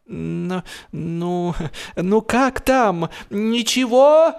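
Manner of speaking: high, drawn-out call across the water, pitch climbing. A narrator's reading. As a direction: shout the question from the boat, rising and slowing. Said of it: "крикнул Джордж".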